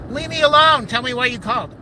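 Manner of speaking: high, loud burst of irritation; fed-up retort to a nagging caller; retold snap, pitch jumping up; exasperated retort.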